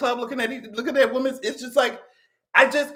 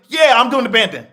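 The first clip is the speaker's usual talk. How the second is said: mock boast; 2 semitones higher, 11 dB louder than usual. Voicing the man's reply.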